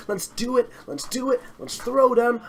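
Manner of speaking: getting hyped up. Real, not acted. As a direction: whip up the hype on purpose. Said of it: "I'm gonna get excited".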